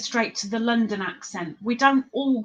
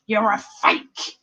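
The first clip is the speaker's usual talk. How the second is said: mock accusation. Mock accusation about profile picture.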